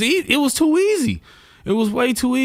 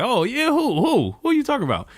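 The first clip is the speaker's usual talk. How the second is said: cheeky, high-pitched mock questioning; smart-ass; 12 semitones higher than usual. Son kidding an old lady about his lookalike, smart-ass. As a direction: needle her with a high, teasing "who". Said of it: "Just trying to be a smart ass".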